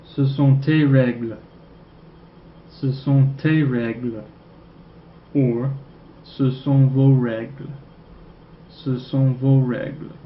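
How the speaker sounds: slow, careful French: Ce sont tes règles, Ce sont vos règles; slow French model. Shown as a demonstration. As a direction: model each French answer slowly for repeating. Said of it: "two possible answers".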